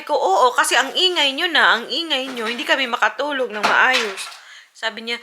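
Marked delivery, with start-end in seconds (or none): 0.1-4.2 retold annoyed complaint. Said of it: "Galit na galit ako".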